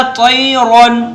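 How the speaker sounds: "तैरन" chanted slowly with heavy emphatic t and r; full, heavy ra. Shown as a demonstration. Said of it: "तो कैसे पढ़ा जाएगा?". ("तैरन" में रा पुर करके तिलावत)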